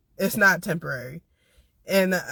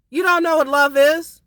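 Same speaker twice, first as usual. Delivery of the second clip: real anger, louder and higher; angry shout; 7 semitones higher, 6 dB louder than usual. Real, not acted. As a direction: yell it at people who claim to be in love. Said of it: "I'm literally angry".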